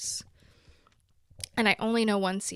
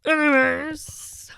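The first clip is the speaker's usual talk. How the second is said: drawn-out anyways; 4 semitones higher, 7 dB louder, much slower than usual. Real, not acted. Drawn-out transition word.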